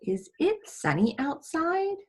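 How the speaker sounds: slow rising wondering question; curious question. Shown as a demonstration. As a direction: ask it like you really wonder. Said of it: "question mark".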